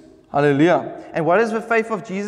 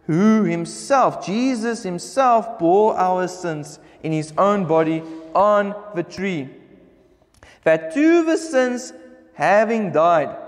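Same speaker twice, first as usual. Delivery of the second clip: slow, measured Bible reading; scripture reading; slower than usual. Acted. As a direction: read the verse out with drawn-out, weighted words. Reads scripture aloud to congregation.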